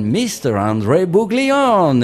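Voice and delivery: grand circus ringmaster announcement. Shown as a demonstration. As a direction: announce the star act, drawn out. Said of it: "quel plaisir pour moi de faire le monsieur loyal".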